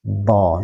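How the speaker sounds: "Do" with puffed cheeks, tongue slightly out; cheeks-puffed dhad. Shown as a demonstration. Teacher showing an easier method, cheek-puffed "Do". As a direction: puff out the mouth for a heavy "Do". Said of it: "cembungkan saja".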